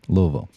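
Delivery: practice the mumbled Louisville; trying local Louisville. Shown as a demonstration. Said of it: "like you've got a little bourbon in your mouth".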